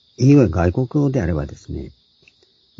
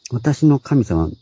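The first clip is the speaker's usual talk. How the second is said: drawn-out phrase; 7 semitones higher, much slower than usual. Shown as a demonstration. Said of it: "まだるっこい表現で".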